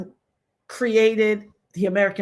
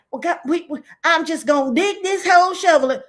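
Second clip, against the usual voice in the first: mock whiny voice, much higher; a hammed-up high mock voice; mock digger; 7 semitones higher, 3 dB louder than usual. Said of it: "they be like".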